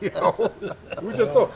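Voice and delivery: normal talking voice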